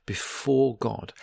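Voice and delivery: slow before God, before pushed; stress on before God. Shown as a demonstration. Teacher explaining the verse, slow stress on before God. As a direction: draw out before God with weight. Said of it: "emphasize the words lifnei Hashem".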